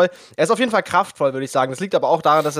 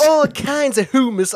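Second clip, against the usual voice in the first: high, slow silly English voice; silly put-on voice; 10 semitones higher, slower than usual. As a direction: ham it up in a goofy voice.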